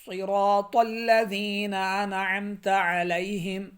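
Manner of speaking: صراط الذین انعمت علیہم slow, no nasal on انعمت; slow tajweed reading; correct recitation. Shown as a demonstration. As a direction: recite slowly, clean انعمت. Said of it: "بعض لوگ غنہ کر رہے ہوتے ہیں".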